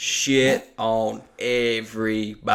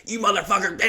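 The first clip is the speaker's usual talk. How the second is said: retold yell; 8 semitones higher, faster than usual. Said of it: "yelling at this Flint across the line".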